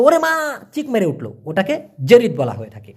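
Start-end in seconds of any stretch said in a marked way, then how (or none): 0.0-0.6 cry of pain. Retold or imitated. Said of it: "কেউ ব্যথা পাইলো".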